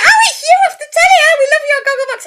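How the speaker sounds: high, loud, fast excited squeal; gushing fan. Retold or imitated. Fan greeting a TV face off Gogglebox, high gushing shout. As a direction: imitate an overexcited fan shouting. Imitates fans spotting her on street.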